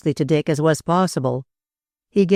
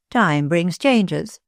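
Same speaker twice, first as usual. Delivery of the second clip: slow musing; much slower than usual. Acted. The speaker repeats phrase musingly.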